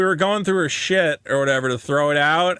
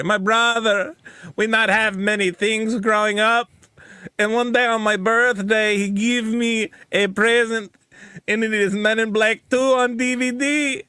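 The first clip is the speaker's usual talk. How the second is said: put-on heavy Hispanic accent; 4 semitones higher than usual. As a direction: retell her sad story in an exaggerated Hispanic accent. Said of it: "for the sake of the story".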